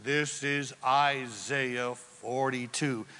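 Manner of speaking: lightly voiced heavenly proclamation, slow and low; big booming voice. God speaking from the cloud, slow, low mock-booming voice. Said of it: "that big booming voice".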